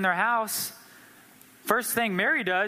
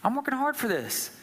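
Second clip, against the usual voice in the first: irritated complaint; 6 semitones higher than usual. Retold or imitated. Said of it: "she's getting irritated".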